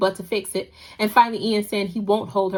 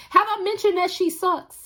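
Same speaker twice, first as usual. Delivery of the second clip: mock aside; 10 semitones higher than usual. Real, not acted. Aside mocking the mother.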